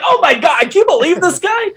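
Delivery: high-pitched mock exasperation; incredulous, play-acted griping; blowing off steam. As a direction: pretend to vent to a third person. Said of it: "blow some steam".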